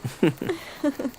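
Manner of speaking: a quick high laugh before judging; laugh, then dismiss it; brief laugh. Acted. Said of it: "bad joke". (छोटी सी हँसी)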